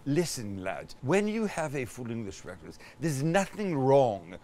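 lightly voiced posh Englishman replying. Posh Englishman answers the East Londoner, softly posh. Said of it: "Now do the posh responding to the East London".

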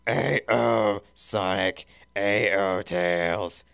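a hint of a slow Teletubby drawl; lightly voiced Dipsy drawl. A narrator's reading. Dipsy greeting Sonic and Tails, mild drawl. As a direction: stretch the greeting lazily. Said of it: "Dipsy drawled".

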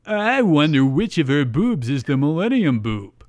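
mock-excited cartoon sidekick. A narrator's reading. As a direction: wonder aloud with eager curiosity. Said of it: "Tristan looks excited".

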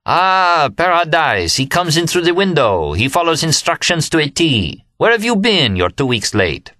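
high, exuberant cry of delight; laughing exultation. A narrator's reading. Remy greets the narrator coming in the window, exultant laughing cry. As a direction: greet an old friend in high, crowing amazement. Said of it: "His great laugh, one of the greatest laughs".

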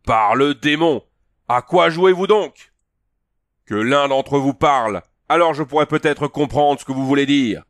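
voix haute et très forte, lente au début; mugissement de taureau. Acted. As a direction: dominer le vacarme en vociférant. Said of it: "un mugissement de taureau et vociféra". (Conan vocifère pour couvrir le tumulte)

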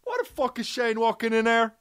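mock angry actor. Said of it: "and I'm saying".

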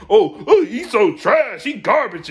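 loud mock whine of a hater fan. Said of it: "But you".

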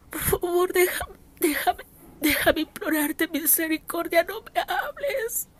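crying softly while begging, voice breaking; tearful pleading. Retold or imitated. Kneeling woman begs her heavenly father for mercy, in tears. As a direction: beg through tears, fading almost to nothing at the end.

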